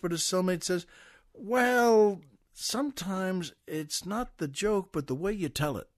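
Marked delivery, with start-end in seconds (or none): 1.3-5.9 a little embarrassed. Acted. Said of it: "is a little embarrassed".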